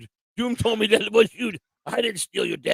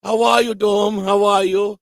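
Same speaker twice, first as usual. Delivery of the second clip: hearty greeting; 5 dB louder than usual. Real, not acted. Greeting a chat member.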